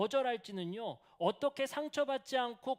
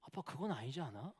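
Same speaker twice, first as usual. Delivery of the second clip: put-on laughing child quote; 6 semitones lower, 7 dB quieter than usual. Father laughing as he quotes his son's rebuke. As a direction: quote the son through a laugh. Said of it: "하준이가 저한테 뭐라는 줄".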